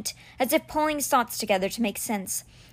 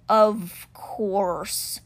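slow creature murmur, lightly done; murmuring cheetah. A narrator's reading. Stone cheetah mulls the boy's news, murmuring. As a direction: murmur it ponderously as a big cat. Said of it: "Simba murmured".

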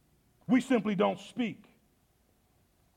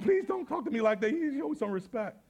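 smiling plea; 4 semitones higher than usual. Retold or imitated. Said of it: "I smiled".

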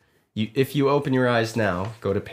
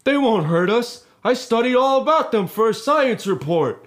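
put-on high, loud amazed boy; 10 semitones higher, 3 dB louder than usual. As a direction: sound amazed, not scared. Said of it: "more amazed than scared".

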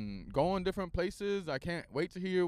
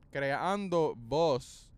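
slow put-on voice; much slower than usual. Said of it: "creando una voz".

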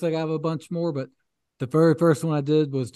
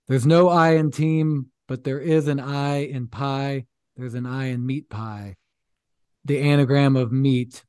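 mock inspirational; slower than usual. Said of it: "the way he delivers it".

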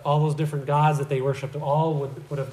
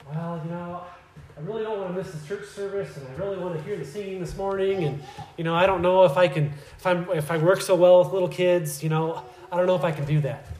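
whiny excuse; 3 semitones higher than usual. Retold or imitated. Churchgoer dodging nursery duty.

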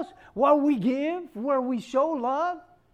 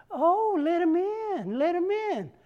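sweet welcome; 3 semitones higher, slower than usual. Retold or imitated. Mother sweetly welcomes pastor.

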